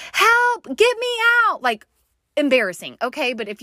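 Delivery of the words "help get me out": high, loud mock cry for help; half-acted panicked yell for help; retold panicked scream. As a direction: call out like you're trapped in a tunnel in a panic. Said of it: "I was screaming".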